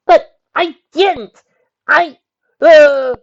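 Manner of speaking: very high, loud, slow frantic pleading; panicked protest. Acted. Nick protesting her innocence to Shining Armor, panicked. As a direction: stammer it out in panic. Nick terrified, defending herself.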